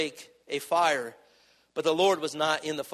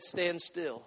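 softer, hushed; gentle command; 8 dB quieter than usual. Acted. God telling a hurting wife to stand still, soft and hushed. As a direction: lay it down gently. God's quiet word.

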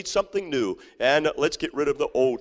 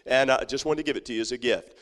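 pleasant, kindly offer; 3 semitones lower, 4 dB quieter than usual. Pretend. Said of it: "You could go up and say".

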